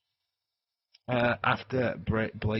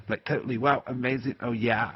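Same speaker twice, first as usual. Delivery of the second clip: lightly mocked mean-girl gush; 2 semitones higher, faster than usual. Teasing a friend with a mock mean-girl voice. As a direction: put on a bit of airhead girl talk. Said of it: "You sound like a mean girl".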